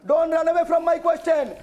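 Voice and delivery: slow, drawn-out shout at an opponent; shouted challenge. Real, not acted. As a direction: hammer it out slowly, shouting. Heated challenge in TV debate.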